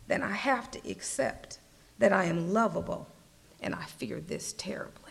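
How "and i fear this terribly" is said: breathy whisper, barely voiced; whispered confession. Preacher confessing fear to the congregation, whispered. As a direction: let the fear slip out as a whisper.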